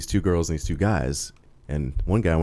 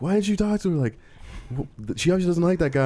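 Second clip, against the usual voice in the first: higher mock-indignant buddy; buddy complaining; 11 semitones higher than usual. Teller imitating his buddy after leaving the bar, mock indignant. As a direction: toss it off like a baffled friend. Friend quoted questioning him.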